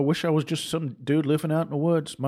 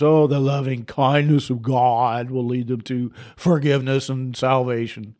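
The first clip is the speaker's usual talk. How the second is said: mocking pious tone; 3 semitones lower than usual. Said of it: "we wrap it up in our little scriptures".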